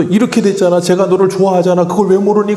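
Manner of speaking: grandma nagging a drama actor, mock annoyed; mock grandma anger at TV. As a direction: imitate an old woman fuming at the screen. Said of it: "그러면서 막 화를 내요".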